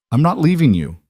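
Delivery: high, loud refusal; defiant protest. Acted. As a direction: plant your feet and refuse. Julian defies Adrian's order.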